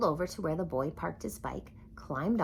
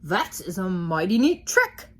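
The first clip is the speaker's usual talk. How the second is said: impressed dog voice; 7 dB louder than usual. A narrator's reading. Dog's impressed thought.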